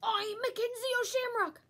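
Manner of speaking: loud, high proud shout of his own name. A narrator's reading. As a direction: announce yourself with a shout. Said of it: "I shouted".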